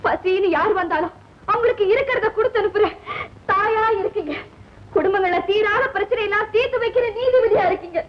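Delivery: tearful, pleading reproach. Acted. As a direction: hold back tears while reproaching. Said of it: "ஏன் அழற?". (அழுகையோடு ஆதங்கம்)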